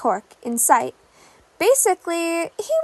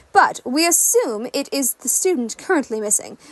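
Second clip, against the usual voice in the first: news anchor read. Acted. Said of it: "The news anchor took back over".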